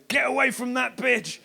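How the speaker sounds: slow, hammed-up yell at the alien; a slow mock action-movie shout; mock Sigourney Weaver shout. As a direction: bark it out slowly like a film heroine. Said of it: "Sigourney Weaver in The Power Loader".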